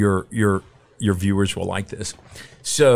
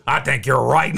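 laughing agreement; 6 semitones higher than usual. Retold or imitated. Coach laughing at the slight.

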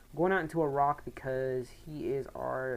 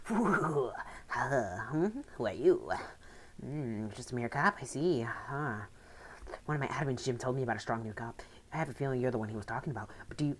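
lightly voiced scheming villain boss; greedy, gloating, a hint of menace; a touch of a smug crime boss; villain leader. Reads Maxie's villain dialogue.

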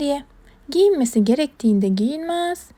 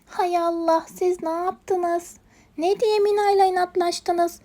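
dismayed scolding; 6 semitones higher than usual. Acted. Leyla reproaches animals over clothes.

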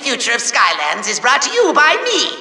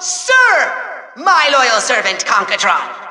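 pompous proclamation; 3 semitones lower, slower than usual. Acted. Grand mock-title proclamation.

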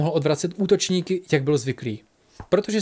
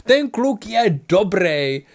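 laughing; 5 semitones higher, 4 dB louder, much slower than usual. A narrator's reading. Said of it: "rozesmál se upřímně Bík".

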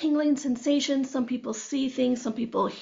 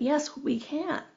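slow, unhurried calm reply; calm, drawn-out reassurance, acted out; peaceful, calm; 3 semitones higher, 3 dB quieter, slower than usual. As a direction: answer serenely, taking your time. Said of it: "peaceful, amazing, brilliant, calm body".

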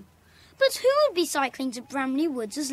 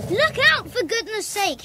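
urgent warning; 5 semitones higher than usual. Acted. Warning police about the guard dog.

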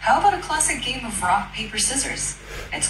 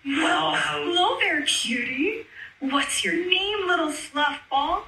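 cooing at a puppy; 4 semitones higher than usual. Real, not acted. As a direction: coo sweetly at a fluffy dog. Greeting a puppy on camera.

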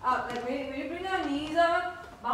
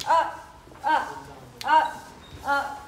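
counting calls. Real, not acted. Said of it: "dance coach calling counts".

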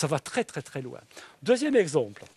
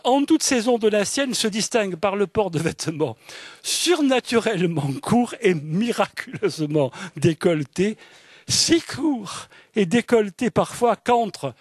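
raised, lively literary reading; reading a passage aloud; 4 semitones higher, 3 dB louder than usual. Acted. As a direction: read the novel's sentence with relish. Reads an Echenoz excerpt aloud. (lecture expressive d'un extrait de roman)

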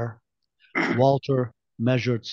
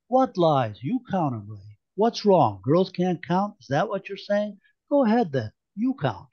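taunting; 5 semitones higher than usual. Acted. Merica taunting Ray.

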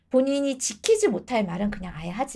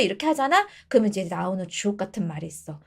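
usual speaking voice

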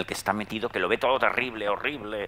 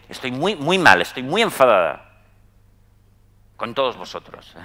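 a hint of an upset mother, louder on muy; 3 semitones higher, 7 dB louder than usual. Mother tells her son she's angry with everyone, mildly aggrieved. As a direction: mimic a mother's aggrieved complaint, lightly.

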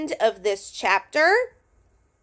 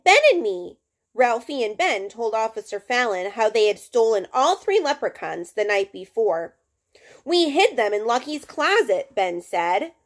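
lively read-aloud with raised character voices; story reading. A narrator's reading. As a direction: read the chapter to the class, bringing each kid to life. Reads a chapter book aloud.

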